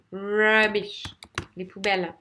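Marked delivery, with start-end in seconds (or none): 0.1-1.0 "Rubbish" with a held English R. Shown as a demonstration. Teacher giving an example word, "Rubbish" with a shallow English R. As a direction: ease into the R of "Rubbish", not from the throat. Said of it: "beaucoup moins profond".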